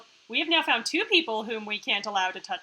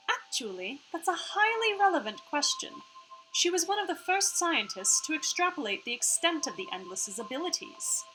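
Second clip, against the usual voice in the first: higher, part-Australian hologram voice; Iris; 6 semitones higher than usual. Acted. Hologram answers a question on the scientist, part-Australian Iris voice. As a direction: explain as an AI with a put-on Australian tinge.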